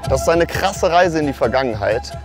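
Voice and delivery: ordinary talk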